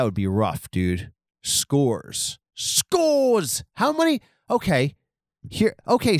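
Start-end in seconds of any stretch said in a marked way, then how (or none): 2.5-4.2 high, drawn-out mock-English exclamation; English stereotype. Host querying the headline word, high English stereotype. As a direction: cry it out like the grating English newsreader.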